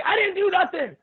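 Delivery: high-pitched wail of innocence; mock indignant protest. Man protesting to police as he gets beaten, mock high-pitched protest. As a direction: protest your innocence, voice shooting way up.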